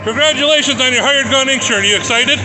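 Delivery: hyped announcer. Acted. Mock induction ceremony.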